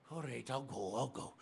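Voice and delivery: soft, sulky giving in; meek giving in. Acted. Wife gives in to her husband, softly and sulkily. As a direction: mutter it like a beaten wife.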